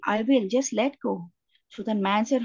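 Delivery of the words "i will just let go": slow, gently voiced reassurance from God; very gentle. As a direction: ease the words out slowly and gently. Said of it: "So the voice said it very gently".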